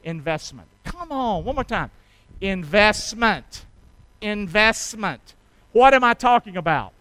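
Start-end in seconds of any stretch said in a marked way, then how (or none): 2.4-5.4 drawn-out. Shown as a demonstration. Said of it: "Can you say that with me?".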